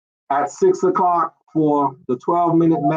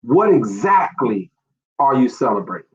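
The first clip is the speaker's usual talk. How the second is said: calm pointed question; 6 semitones lower than usual. Retold or imitated. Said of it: "just say".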